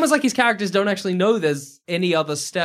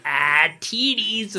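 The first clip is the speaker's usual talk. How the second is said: slow, dopey and high; goofy manchild voice; 4 semitones higher, much slower than usual. Retold or imitated. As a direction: savor it like a dopey kid. Goofy Sandler impression.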